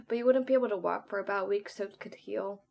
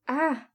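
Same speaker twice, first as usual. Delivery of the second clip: short, higher cry of pain; stifled pained yell; 6 semitones higher, 5 dB louder than usual. A narrator's reading. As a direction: cry out while holding back a yell. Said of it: "trying not to yell".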